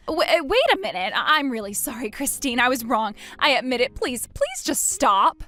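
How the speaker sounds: flustered, pleading apology; panicked pleading. Acted. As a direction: beg her to stop in a rush. Ex-husband begging Christine to stop.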